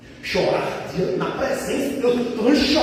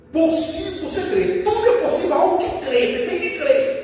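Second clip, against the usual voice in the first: raised, high-pitched preaching; impassioned preaching; 8 semitones higher than usual. Acted. Preacher voicing Jesus to the desperate father, impassioned preaching. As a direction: press the promise home from the pulpit.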